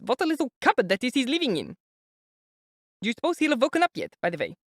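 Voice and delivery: high, anxious mother's voice; an older woman fretting before meeting her son; high, worried mother voice; fretful mother. A narrator's reading. Pulcheria frets.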